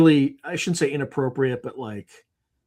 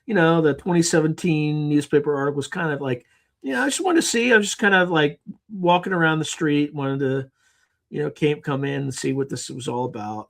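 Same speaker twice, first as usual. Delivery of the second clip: mock casual agent; 3 semitones higher than usual. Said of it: "they'd be like".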